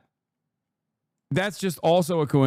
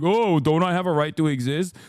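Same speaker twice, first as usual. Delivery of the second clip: put-on whiny little old me, pitched up a bit; mock self-pity; 3 semitones higher than usual. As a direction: play the poor innocent victim, hammed up. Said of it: "and be like".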